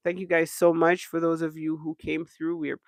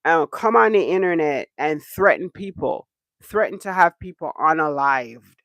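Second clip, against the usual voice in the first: louder indignant questions; outraged rant; 6 dB louder than usual. Real, not acted. Vlogger fuming at a woman threatening viewers, louder. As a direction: raise the voice in disbelief.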